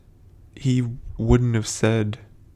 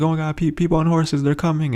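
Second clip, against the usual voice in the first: mock panicked warning, pitched higher; freaking out; 6 semitones higher than usual. People in the garden warning of riders, mild mock panic. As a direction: imitate someone frightened by riders coming. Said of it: "The riders are freaking out".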